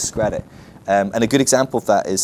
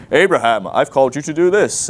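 louder, mock divine proclamation; booming voice from heaven; 3 semitones higher, 5 dB louder than usual. Preacher imitating God calling Abraham, mock booming. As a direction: call out the name like heaven speaking. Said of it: "booming voice from heaven".

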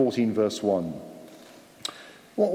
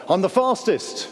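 mock boastful, pitched higher; bragging; 5 semitones higher than usual. Imagined listener boasting about being quickest, mock bragging. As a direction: brag like a cocky child, lightly acted. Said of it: "Have you ever bragged about something".

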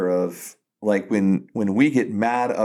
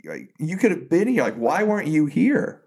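imitated grieving plea, higher pitch, no sobs; retold wailing; 5 semitones higher than usual. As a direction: plead higher, a mild mock wail. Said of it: "she's crying, and probably wailing".

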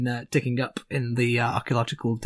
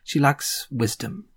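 wise Gorm; 2 semitones lower than usual. Acted. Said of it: "Gorm says to you".

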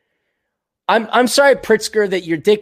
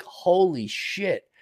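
stunned; 6 dB quieter, much slower than usual. Retold or imitated. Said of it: "I was like".

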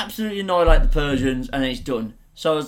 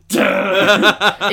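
imitating Skinner; 7 dB louder than usual. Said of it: "he says, he goes".

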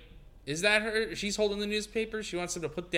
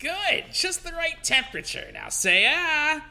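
sweet nanny voice; 10 semitones higher, 5 dB louder than usual. Acted. Mary feeding the baby.

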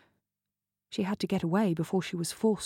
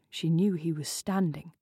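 ordinary delivery

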